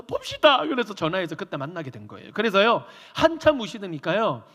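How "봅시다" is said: very high, loud sharp call; mock stern elder; stern summons. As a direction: summon him firmly.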